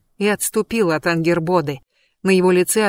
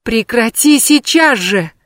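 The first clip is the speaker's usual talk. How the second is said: slow, loud, higher panicked shout; panicked cry; 4 semitones higher, 5 dB louder, slower than usual. Acted. Loki shields his wife, panicked shout. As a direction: cry out in alarm. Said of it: "в панике вскричал Локи".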